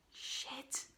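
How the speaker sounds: soft, voiceless swear of dismay; whispered curse. Acted. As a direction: let it slip out under your breath. Bad news of furlough ending lands.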